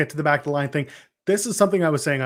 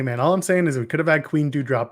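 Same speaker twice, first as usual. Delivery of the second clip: ordinary talk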